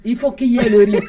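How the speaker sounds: laughing through the words. Real, not acted. Laughing with the host about the rice. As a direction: say it while laughing at the joke.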